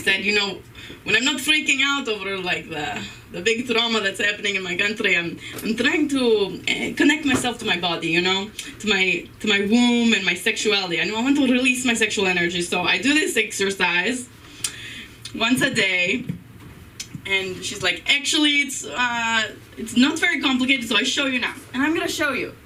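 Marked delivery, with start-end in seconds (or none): 0.2-16.2 lightly put-on Ukrainian accent, mild; imitating a Ukrainian friend, understated. Comic telling friend Alexa's words to audience in Ukrainian accent. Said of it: "she talks like this". 18.1-21.5 put-on light Ukrainian accent, a touch higher; imitating her Ukrainian friend lightly. Comic quoting Alexa offering to show the exercise in Ukrainian accent. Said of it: "she taught me how to speak like this".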